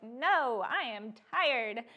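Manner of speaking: slow, emphatic protest of tiredness; weary refusal. Retold or imitated. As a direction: dig in, dragging out each word. Acted refusal of an invitation.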